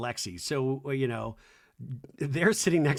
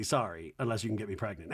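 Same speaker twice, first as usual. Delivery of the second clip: mock Lindsay; 5 semitones lower, 5 dB quieter, faster than usual.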